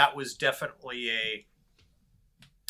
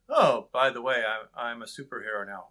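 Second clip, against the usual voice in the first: awkward dialogue; 4 dB louder than usual. Pretend. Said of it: "awkward exposition".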